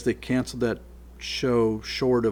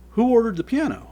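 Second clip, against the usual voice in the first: retold demand; 11 semitones higher, 6 dB louder than usual.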